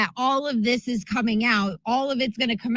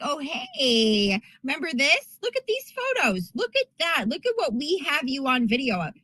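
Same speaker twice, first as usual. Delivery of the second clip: mock blackmailer taunt; 3 semitones higher than usual. A blackmailer taunting a congressman in a lightly mocking voice. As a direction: dangle the photos like a smug blackmailer. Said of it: "and they're like".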